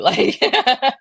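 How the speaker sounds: laughing, self-mocking competitiveness. Real, not acted. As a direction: say it through a laugh, loud and cheeky.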